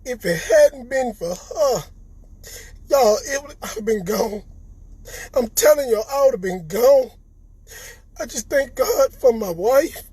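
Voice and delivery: real tears, words catching in the throat; choked up, fighting to get the words out; crying while talking. Real, not acted. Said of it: "I don't mean to cry".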